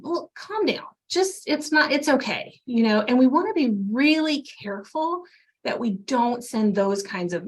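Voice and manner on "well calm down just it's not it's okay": higher, brushing-off voice, imitating a careless helper; mock dismissive soothing. Leader waving off an anxious teen, mock dismissive and higher. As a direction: pat them on the head with your voice, higher. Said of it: "we're essentially telling them".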